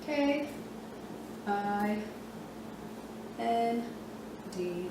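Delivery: letter by letter, slow with pauses; spelling out letters. Shown as a demonstration. Teacher spelling the word kind letter by letter. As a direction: spell K I N D out for the kids. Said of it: "in words like".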